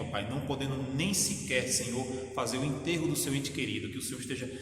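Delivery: fervent pastor's prayer, swelling on each Pai; closing prayer. Acted. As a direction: pray for the sick and grieving, rising with feeling. (oração fervorosa de pastor)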